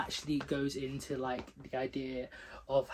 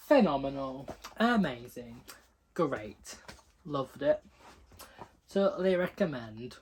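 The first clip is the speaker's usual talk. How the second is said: put-on Yorkshire accent; 6 dB louder than usual. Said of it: "Don't know why I went Yorkshire just then".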